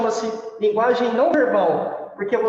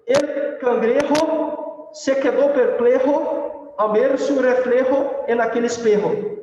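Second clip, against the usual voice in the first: slow Spanish recitation with rolled-out phrases; Spanish tongue twister; 3 semitones higher, slower than usual. Shown as a demonstration. Teacher recalling a school tongue twister, in Spanish accent. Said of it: "trava-línguas em espanhol".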